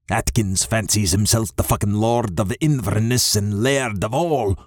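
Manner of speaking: put-on agitated thick Scottish accent; old father cursing in thick northern brogue. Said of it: "his thick northern accent coming out when he's agitated".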